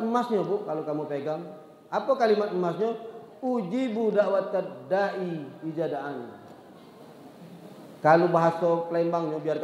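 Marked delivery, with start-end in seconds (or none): 3.4-6.2 slow recitation. Acted. Quran verse recited slowly.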